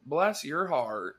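slow, drawn-out Southern drawl; Southern accent. Pretend. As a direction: stretch it in a mock Southern accent.

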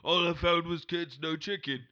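chatty London geezer telling a yarn; Cockney character spinning a tall tale about Kentucky; Cockney accent. Acted. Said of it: "you said it in a Cockney accent".

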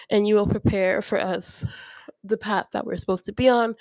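praying aloud to the Lord, earnest and personal; a spoken prayer with a catch of emotion; heartfelt prayer. Acted. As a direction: pray over your listeners like at church. Prayer for listeners and mom.

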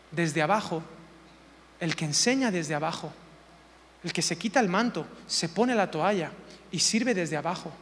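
low, subdued and unhurried; humble, from below. Shown as a demonstration. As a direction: drop down into a humble hush. Contrasts serving from below with above.

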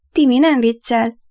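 a hint of a sad ghost boy; gently insist, with sorrow. Little ghost boy reassuring the doubting boy, sadly. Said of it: "szólalt meg szomorú hangon".

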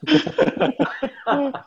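high, breathy burst of real laughter. Real, not acted. Host laughing at the guest's book mix-up, real laughter. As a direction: cracks up laughing, pitch jumping high.

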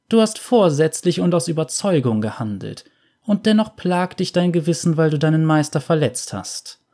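a hint of a cold, all-seeing veiled seer; lightly voiced mysterious veiled woman.

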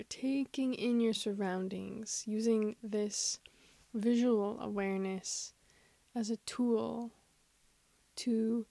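unhurried meditation guide with long pauses; guided meditation. Acted. Host guiding listeners into awareness of their surroundings, guided meditation. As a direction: guide gently, leaving space after each phrase.

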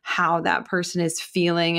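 normal talking voice

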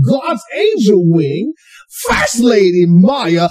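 slow grand host introduction; announcer voice. Acted. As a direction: announce her like a hype man. Grand introduction of host's wife.

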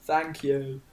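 hint of a suspicious shopkeeper sending someone off; character voice. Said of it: "so glad we're finished with that".

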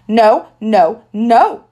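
put-on loud toddler refusal, shouted; hollering. A narrator's reading. Toddler refusing shoes in the store, loud hollering. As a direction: yell it like a stubborn little kid. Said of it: "he hollered".

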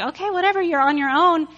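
offhand, fed-up whatever; dismissive. Retold or imitated. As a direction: wash your hands of them. God dismisses Israelites, retold.

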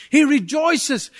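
slow, loud proclaiming shout; preached emphasis. Acted. Preacher proclaiming God's joy, slow shout. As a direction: land it hard and slow.

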